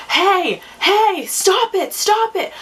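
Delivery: retold yell. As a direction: call out over the street to break it up. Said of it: "I'm yelling at these people".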